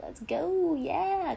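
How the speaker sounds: high, hyped "let's go"; excited. Retold or imitated. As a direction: pump yourself up mid-run. Hyped self-talk mid-race.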